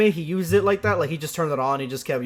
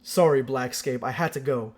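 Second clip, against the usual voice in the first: end of video voice; 3 semitones lower than usual. Shown as a demonstration. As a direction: read it like a video outro. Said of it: "I'm gonna read it like end of, end of video".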